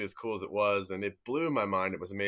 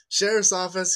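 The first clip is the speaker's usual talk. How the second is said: louder, higher yell of "Sheriff's office."; 9 semitones higher, 8 dB louder than usual. Retold or imitated. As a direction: shout "Sheriff's office." into the empty house. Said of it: "And he yells again".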